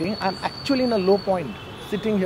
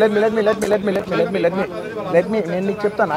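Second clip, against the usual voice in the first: talking over reporters; 3 semitones higher, 5 dB louder, much faster than usual. Real, not acted. Trying to speak over reporters.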